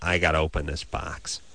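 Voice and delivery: low, businesslike muttering; impatient impression. Host imitating Drew rushing to open his parcel, low and impatient.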